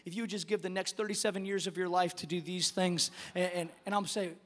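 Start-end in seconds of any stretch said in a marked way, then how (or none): 0.0-3.1 a hint of an eager church member pitching an idea; lightly voiced congregant. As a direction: mildly mimic a keen member, softer and lower. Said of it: "people come to me and".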